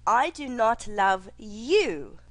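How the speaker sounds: "I" hit first and hard, slow; slow, stress the opening "I". Shown as a demonstration. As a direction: punch the word "I" in "I do not love you". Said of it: "For example".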